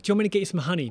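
retold offer shouted in frustration; loud and high, at wits' end; fed-up dad pressing a sick child; exasperated yelling. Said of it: "sorry for yelling at you last night".

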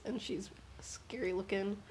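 spooky hushed whisper. Real, not acted. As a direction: whisper it like a secret. Describing a scary demon.

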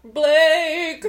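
calling the name out loudly; eager loud announcement; excited shout. Real, not acted.

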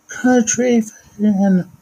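very high, slow drawn-out call; hype announcer call. Acted. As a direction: stretch the name like an arena announcer. Shouting out friends' names.

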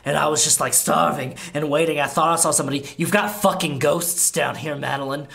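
lightly voiced starving vampire; defensive Laszlo. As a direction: justify the rat, a bit unhinged.

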